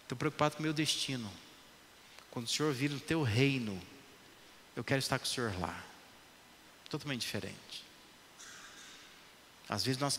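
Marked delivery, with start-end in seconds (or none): 0.0-5.8 humble plea. Retold or imitated. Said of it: "O outro está dizendo assim".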